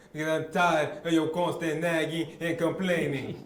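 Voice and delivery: exaggerated African accent on every word; general African accent. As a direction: put on a broad African accent. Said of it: "just give us a general African accent".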